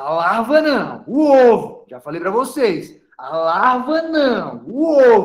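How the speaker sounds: loud, slow, annoyed, emphatic, hammered home.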